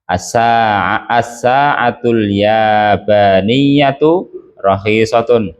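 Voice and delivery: slow, even reading of "yabaniyatu"; patient teacher model, slow. Shown as a demonstration. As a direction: read it slowly for the class to copy. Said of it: "bukan kok lempong terus".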